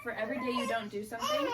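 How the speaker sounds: words breaking into a laugh; half-laughing, half-crying the quote; laughing through it. Real, not acted. Laughing while quoting the therapist's advice to a friend.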